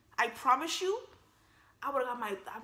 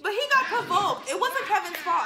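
laughing; 8 semitones higher, 6 dB louder than usual. Real, not acted. Laughing defense of Kevin.

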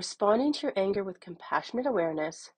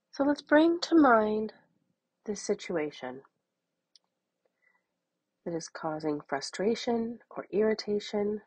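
measured meditation voice with long pauses; unhurried, even guidance, leaving room to breathe; guided meditation. Acted. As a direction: guide them gently through noticing anger.

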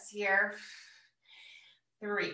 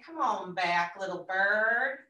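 gentle coaxing; 3 dB louder, slower than usual. Pretend. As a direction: coax your wandering mind home gently. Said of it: "We can just gently say".

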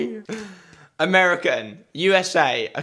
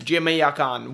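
"Jamaican" in a mock Jamaican accent; slower than usual. Shown as a demonstration. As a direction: say "Jamaican" with a broad attempted island accent. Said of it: "we have got Jamaican".

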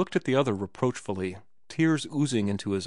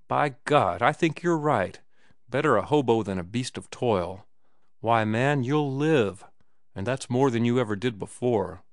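excited cry. Acted. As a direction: burst out with sudden conviction. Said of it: "then cried".

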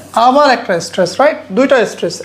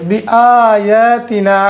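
drawn-out recitation; much slower than usual. Shown as a demonstration. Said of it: "এখানে স্ট্রেসটা কোত্থেকে দেওয়া হয়েছে".

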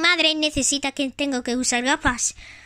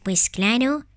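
mother toy voice; 8 semitones lower, slower than usual. Pretend. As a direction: play the gentle mother of Tag. Plays Tag's mother.

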